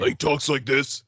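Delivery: lightly imitated husky short guy; slow it down into a hint of huskiness. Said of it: "short guy with the husky voice".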